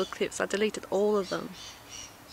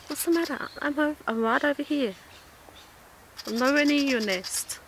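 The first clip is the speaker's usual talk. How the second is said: pitched-up pet talk to a bird; coaxing the bird; 5 semitones higher than usual. Real, not acted. Reassuring the bird he is nowhere near its nest, higher coaxing. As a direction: sweet-talk an angry bird.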